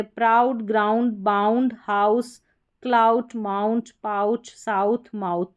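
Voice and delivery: प्राउड, ग्राउंड, हाउस each with a clear "ow"; "ow" sound. Shown as a demonstration. Teacher reads spellings to students, clear "ow" sound. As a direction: list the words, opening the vowel to आऊ. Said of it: "इसका उच्चारण आऊ".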